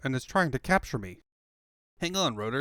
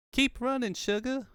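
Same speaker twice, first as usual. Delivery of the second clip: higher, urgent plea; higher urgent urging; 9 semitones higher than usual. Acted. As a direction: push her to keep going. Urging while fleeing.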